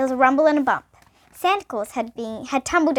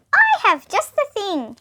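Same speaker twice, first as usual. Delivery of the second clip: laughing Santa; 8 semitones higher, 5 dB louder, slower than usual. Acted. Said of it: "he laughed".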